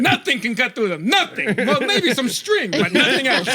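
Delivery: laughing pushy salesman. Retold or imitated. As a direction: oversell it while laughing. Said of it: "still mad about the salesman".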